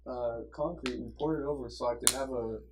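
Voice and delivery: soft, meandering teacher imitation; soothing teacher. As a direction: ramble gently like a soothing teacher. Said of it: "he has the most soothing voice".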